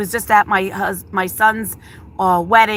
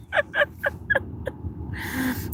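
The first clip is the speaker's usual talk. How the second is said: soft laugh; 14 semitones higher, 11 dB quieter than usual. Real, not acted. Laughs off urge to cry.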